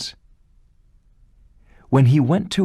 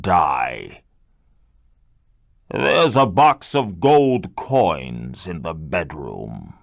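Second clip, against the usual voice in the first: stern beast; 2 semitones higher, slower than usual. Acted. Beast giving its terms.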